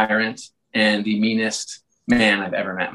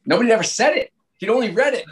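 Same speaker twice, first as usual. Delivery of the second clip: laughing; 9 semitones higher, faster than usual. Real, not acted. Laughing at mentor's Whiffy.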